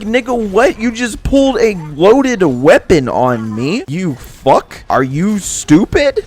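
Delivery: loud, high, incredulous scolding; retold outrage. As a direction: act out telling off a fool, stretching the key words. Acted outrage at the gunman.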